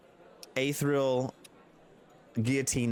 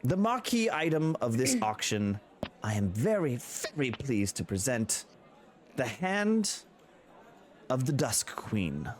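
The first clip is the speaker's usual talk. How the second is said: auctioneer. Acted. Auctioneer unveiling the main lot to the room. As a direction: unveil the prize.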